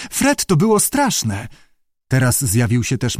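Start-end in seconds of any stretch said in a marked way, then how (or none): 0.1-1.5 high, slow whimper. A narrator's reading. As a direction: draw out the complaint in a high voice. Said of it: "kwilił koteczek".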